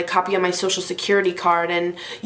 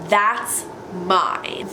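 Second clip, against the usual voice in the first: slow, pointed "That's ... mine" with a pause; flat retort. Retold or imitated. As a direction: drop it on him coolly, word by word. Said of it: "hand and go".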